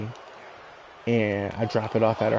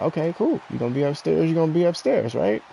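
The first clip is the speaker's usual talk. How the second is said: sarcastic mock agreement; 6 semitones higher than usual. Mocking his girlfriend's request.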